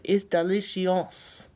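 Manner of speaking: words burped out slowly; burp talking. Pretend. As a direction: burp the word out. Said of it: "Can you please burp a French word?".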